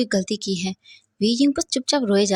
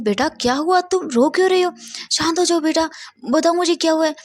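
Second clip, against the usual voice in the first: higher, gentle coaxing; soothing father; 6 semitones higher than usual. A narrator's reading. Father holding his crying son, soothing.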